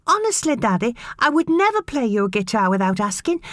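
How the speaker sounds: put-on high boy's voice, near to crying; close to tears. A narrator's reading. Boy pleading with his father, close to tears. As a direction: plead with your father, holding back tears. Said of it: "Close to tears".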